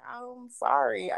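slow, drawn-out fake apology; half-hearted sorry. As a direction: stretch the sorry out insincerely.

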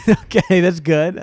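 laughing while speaking. Real, not acted. Laughing at joke.

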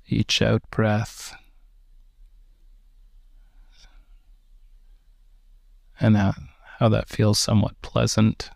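calm, unhurried meditation guide with long pauses; slow, even-toned breathing instructions; guided meditation. Real, not acted. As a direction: guide them gently into relaxation, leaving space between phrases.

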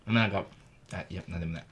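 talking while chewing senbei; mouth full. Real, not acted. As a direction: speak through a mouthful. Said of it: "ちょっとマジで食べながら喋んない".

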